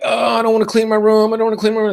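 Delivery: mock whine of a daughter; whiny daughter. Dad imitating daughter's mild whine. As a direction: lightly imitate a sulky kid. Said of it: "she's throwing a fit because it's like".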